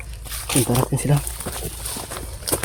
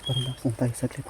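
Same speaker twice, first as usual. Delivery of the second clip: whispering while hiding; 10 dB quieter than usual. Real, not acted. Huwag kang gagalaw para hindi nila tayo makita.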